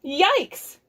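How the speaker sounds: high yelp of mild alarm; alarmed cry. Acted. Aliens cry out at the wild cow, alarmed. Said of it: "cried the aliens".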